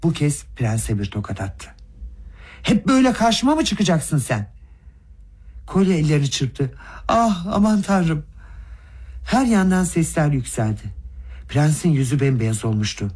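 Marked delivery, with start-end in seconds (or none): 2.6-4.5 high-pitched enraged yell, much higher; furious shout. A narrator's reading. Gavrila yelling at the prince after the slap, enraged high shout. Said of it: "çılgın bir öfke içinde kudurmuş gibi bağırarak". 7.1-8.3 slow, higher, dismayed exclamation; shocked gasp. A narrator's reading. Kolya clapping his hands at the slap, slow shocked cry. Boy gasps as prince is slapped.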